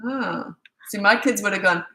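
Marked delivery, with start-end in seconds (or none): 0.1-0.6 soft little hurt "ah". Shown as a demonstration. Parent shows how a child reacts to no, soft hurt "ah". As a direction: demonstrate a child's small stung "ah". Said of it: "make them go like this".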